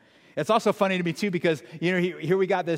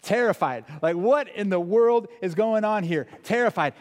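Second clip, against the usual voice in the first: louder, higher, emphatic retelling; rising preaching; 4 semitones higher, 5 dB louder than usual. Acted. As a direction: build the fear for the crowd. Preacher builds up intensity.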